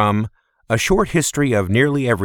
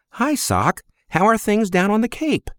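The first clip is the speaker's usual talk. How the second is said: lightly higher, friendly woman's voice; Thena, woman's voice; 12 semitones higher than usual. Acted. Old friend greets Sock at the desk, bright woman's voice. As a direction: voice the old flame, pleased to see him.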